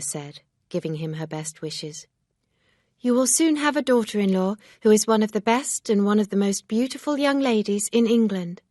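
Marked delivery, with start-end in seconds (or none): 3.0-8.6 lightly raised voice for Emma; a hint of a firm young lady; Emma, lightly voiced, reproachful. A narrator's reading. Emma congratulates Mister Weston.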